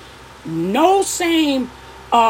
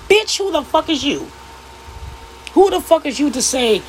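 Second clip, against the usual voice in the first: sharp indignant challenge; 3 semitones higher than usual. Real, not acted. Woman calling out podcast men, indignant. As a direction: demand who they think they are. Angry rant at critics.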